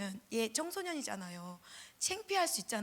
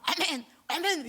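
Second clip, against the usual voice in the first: loud amen response; 5 semitones higher, 6 dB louder, slower than usual. Retold or imitated. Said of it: "큰 소리로 받아 먹고".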